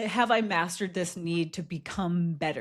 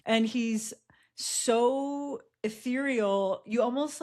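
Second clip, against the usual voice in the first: whisper; 5 semitones higher, slower than usual. Real, not acted. Dreamy description of friend.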